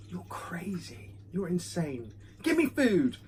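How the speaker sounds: lightly voiced cat, slow start, pitch jumping on the demand; imagined cat voice. Cat watching its owner film and wanting food, in a lightly voiced cat voice. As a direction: play a judging cat that ends demanding. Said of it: "he's just watching me and just going".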